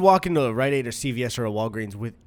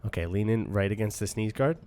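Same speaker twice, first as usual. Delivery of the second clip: low, much softer secret bribe; conspiratorial hush; 5 semitones lower, 6 dB quieter than usual. Pretend. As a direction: lean in and murmur the offer. Customer leans in, conspiratorial.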